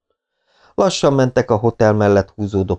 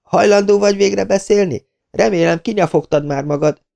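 angry demand; 12 semitones higher than usual. Acted. Angry woman demanding answers.

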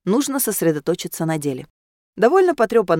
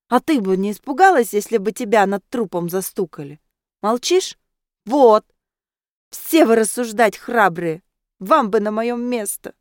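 put-on louder, slowing, drunkenly indignant; tipsy indignant outburst; 3 semitones higher, 3 dB louder than usual. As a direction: rant like a tipsy girl defending a friend. Tipsy Laura defends Iris heatedly. (пьяно и возмущённо, громче и медленнее)

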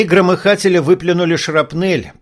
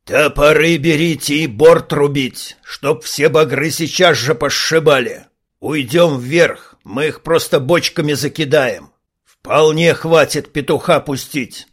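growled orders. Acted. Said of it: "и прорычал".

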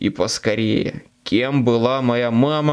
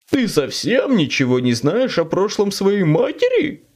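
devil; 6 semitones higher than usual. Acted. Demon taunts Harry.

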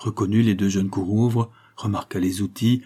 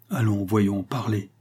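impatient; slower than usual. Acted.

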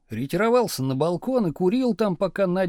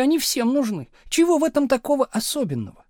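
higher, louder, fast indignant question; indignant wife; 8 semitones higher, 3 dB louder than usual. A narrator's reading. Wife indignantly defending money, higher and fast. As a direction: throw it back at him. Nadya argues.

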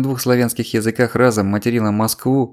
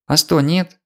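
indignant; 6 semitones higher, slower than usual. A narrator's reading. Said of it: "возмутилась Галя".

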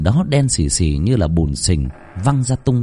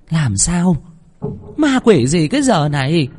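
put-on higher, sharp telling-off of an old woman; scolding; 7 semitones higher than usual. A narrator's reading. Grandmother scolds the screaming cook, sharp and higher. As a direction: snap at the servant impatiently. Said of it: "chạy lại quát".

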